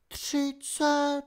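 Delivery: high, soft, sly villainess voice; a cruel fairy toying with her victim; mocking villainess. A narrator's reading. Opal voiced high, counting down. (vysoký, posměšný hlas padoušky)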